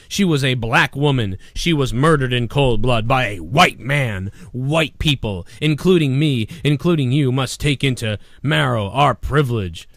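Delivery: solemn mock-earnest reading; lightly mocking a celebrity's earnest post; mocking quote. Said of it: "this girl says".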